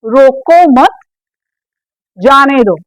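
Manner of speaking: "रोको मत" held together, long pause, then "जाने दो"; measured "रोको मत", separate "जाने दो"; pause after "मत". Shown as a demonstration. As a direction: say "रोको मत" as one unit, then break. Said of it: "sentence क्या है".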